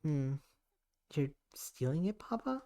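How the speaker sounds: slow, then a high incredulous Papa; shocked disbelief. Acted. Daughter realizing her father steals her work, shocked. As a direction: let disbelief crack upward.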